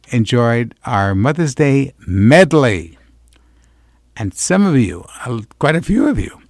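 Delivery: smooth radio host patter. Acted. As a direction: talk to the listeners like a weekend DJ. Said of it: "with my regular radio voice".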